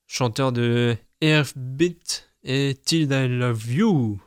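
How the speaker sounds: put-on slow, drawn-out English accent on the song title. Reading a song title to viewers in a hammed-up English accent. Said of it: "quel accent anglais".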